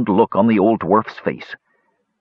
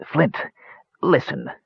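calm reasoning; 5 semitones higher, 3 dB quieter than usual. A narrator's reading. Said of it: "in what he hoped was a calm and reasoning manner".

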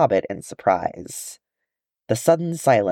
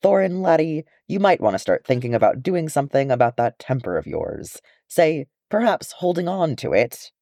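put-on old dwarf Balin; 5 semitones higher than usual. Balin's gentle Scottish-ish rebuke.

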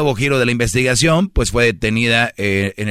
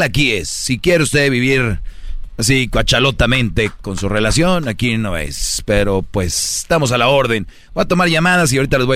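radio host voice. Acted. Radio show host opening.

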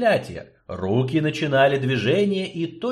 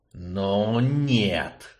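gritted teeth refusal; through gritted teeth; 3 semitones lower than usual. Acted. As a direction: spit it through clenched teeth. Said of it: "сквозь зубы произнёс Горджелин".

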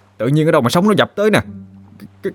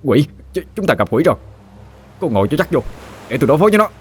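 mild alarmed call, a bit higher; a hint of panic shouting; alarmed cry; 7 semitones higher, faster than usual. A narrator's reading. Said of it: "đã la lên".

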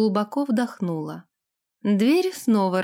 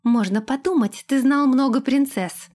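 sarcastic, rising higher and louder at the end; snide jab; 4 semitones higher, 3 dB louder than usual. Acted. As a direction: needle him mockingly. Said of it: "съязвила Лилейна". (язвительно, с нарастанием)

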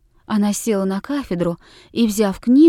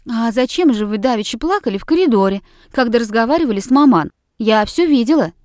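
louder, fast and daring; bold outburst; 4 dB louder, faster than usual. Acted. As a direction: blurt it out bravely. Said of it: "смело вырвалось у Бельской". (смело и громко, быстрой скороговоркой)

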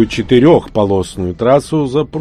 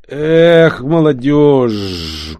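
put-on old-timer's exclamation; 5 semitones higher, 5 dB louder, much slower than usual. A narrator's reading. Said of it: "точнее, захрипел".

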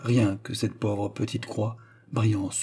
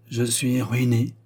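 dull tone; slower than usual. Acted. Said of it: "d'un ton morne".

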